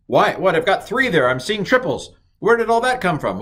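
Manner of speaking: high, loud puzzled outburst; hammed-up confusion; mock surprise. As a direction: act baffled at seeing triples. Startled at three letters.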